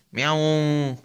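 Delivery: loud mock meow calling the kitten; cat meow. Owner calling the kitten with a loud meow. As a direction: meow at him like a cat, falling off the end.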